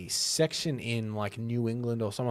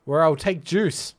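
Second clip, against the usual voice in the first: slow American voice; a hint of a US accent; 3 semitones higher, 4 dB louder, slower than usual. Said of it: "That's my American accent".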